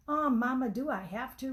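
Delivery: put-on mild childish whine; complaining. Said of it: "Ruth complained".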